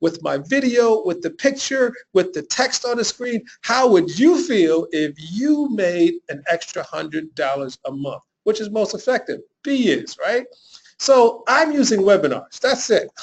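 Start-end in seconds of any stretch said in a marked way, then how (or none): 3.6-8.2 slow, drawn-out, inviting; expressive. Shown as a demonstration. Coach showing webinar viewers the voiced version: slow and inviting. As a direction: paint the picture for them slowly. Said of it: "if I said it like this on a webinar with my voice".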